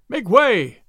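loud, high crowd cry; men in the crowd yelling to clear the way. A narrator's reading. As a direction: yell at them to clear the road. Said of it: "cried the men all about him".

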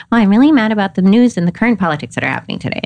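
rattled off fast, all in the head; a quick stiff report from the head; fast heady rant. Retold or imitated. Woman talking about the news instead of feeling. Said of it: "versus going".

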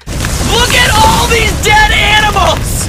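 very high, loud, slow gloating shriek; gleeful fire voice. Acted. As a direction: shriek it like a fire loving destruction. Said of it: "It's like".

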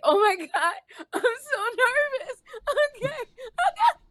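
put-on high, giggly nervous girl voice; imitated nervous giggling. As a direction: mimic a jittery girl laughing through her words. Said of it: "kept giggling and laughing 'cause she was so nervous".

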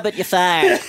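lightly impersonated boss, amused; Donald Trump. Acted. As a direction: do a light Trump impression through a laugh. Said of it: "only one I can do is Donald Trump".

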